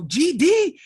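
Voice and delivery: loud, high mock outburst; exasperated curse. Instructor cursing as he smacks the helmet, loud high mock outburst. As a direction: blurt it like a fed-up instructor. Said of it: "And he's like".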